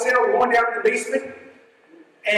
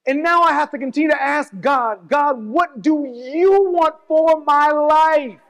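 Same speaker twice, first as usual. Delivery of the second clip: fervent preaching; 4 semitones higher, slower than usual. Real, not acted. Preacher voices question to God.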